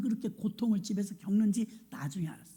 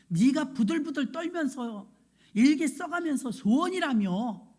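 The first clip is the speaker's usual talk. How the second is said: stern rebuke; 4 dB louder than usual. Retold or imitated. Pastor sternly rebuking the child.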